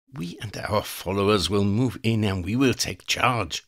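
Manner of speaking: high, cold voice of a female vampire plotting murder; scheming vampire woman. Acted. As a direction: savour each threat like a predator. Elena plots.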